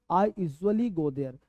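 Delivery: drawn-out teaching read; slow model sentence. Shown as a demonstration. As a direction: say it slowly for the class. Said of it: "teacher models sentence slowly".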